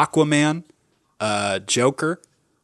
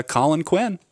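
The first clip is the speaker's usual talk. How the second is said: host sign-off; 6 semitones higher, slower than usual. Acted. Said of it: "You can only say it if it's drawn out".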